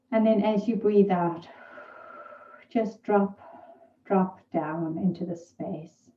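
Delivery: calm, unhurried meditation guide with long pauses; guided meditation. Real, not acted. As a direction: gently guide listeners into their breath and body.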